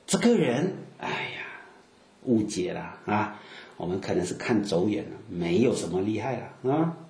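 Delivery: write him off with a sighing aside; dismissive. Acted. Villagers dismiss Jesus after second thought.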